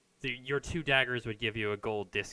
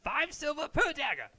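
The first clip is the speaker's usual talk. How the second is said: haggling dwarven smith; 3 dB louder than usual. Acted. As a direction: bargain carefully, correcting himself. Smith states price.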